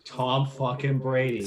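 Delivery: slow, drawn-out Boston imitation; hammed-up Boston accent; mocking Boston accent. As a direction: play up a Boston fan's vowels. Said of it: "talking a mocking Boston accent".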